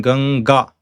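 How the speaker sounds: Ganga with ng before ga; Ganga, nasal at the back of the mouth; velar anuswara. Shown as a demonstration. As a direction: hold the ng in Ganga. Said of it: "So anuswara is pronounced as this".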